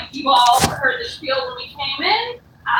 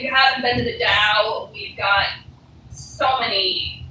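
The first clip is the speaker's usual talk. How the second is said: camp counselor voice; 5 semitones lower than usual. Pretend. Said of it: "I sound like a camp counselor".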